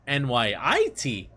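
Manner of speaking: exaggerated accent on the I in "N Y I T"; mock a friend's heavy I. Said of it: "put an accent on the I".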